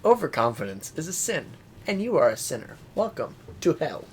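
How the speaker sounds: mock Russian accent, menacing; lightly voiced Russian villain. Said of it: "trying to put on a Russian accent".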